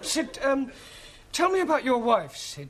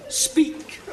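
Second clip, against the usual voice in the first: whispered; 4 semitones higher, 5 dB louder than usual. Shown as a demonstration. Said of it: "you really must start to speak".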